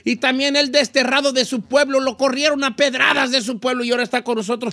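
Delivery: sustained, evenly pitched announcer delivery; radio host intro. Acted. Host introduces the whole crew to listeners, announcer style. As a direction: roll out the team like a radio presenter. Host's show intro and cast roll call.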